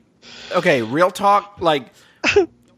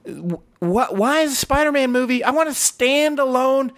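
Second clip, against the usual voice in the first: higher, fired-up rant about the movie; heated rant; 6 semitones higher than usual. Retold or imitated. To his wife over burritos, a high heated rant. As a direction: rant it out, worked up. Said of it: "I was like".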